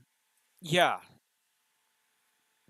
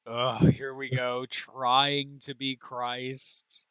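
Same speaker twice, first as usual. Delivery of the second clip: exasperated mock; 5 dB louder, much slower than usual. Mocking the show's Christ-like character.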